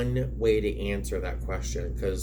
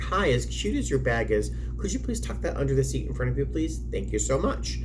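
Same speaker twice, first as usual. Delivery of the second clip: friendly cabin crew voice; 4 semitones higher than usual. Shown as a demonstration. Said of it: "that tone and that energy".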